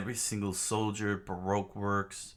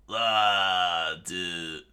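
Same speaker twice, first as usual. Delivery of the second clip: loud attack yell in own pitch; drawn-out fighter's cry; Luffy; 7 dB louder than usual. Acted. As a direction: shout the first sound, then drop off. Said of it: "Luffy was like".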